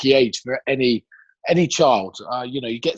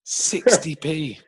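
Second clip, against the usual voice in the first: slow, incredulous repeat; drawn-out emphasis; 2 semitones higher, much slower than usual. Real, not acted. Repeating the cheap drink price to an amazed co-host, drawn-out emphasis. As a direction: stretch it out for emphasis.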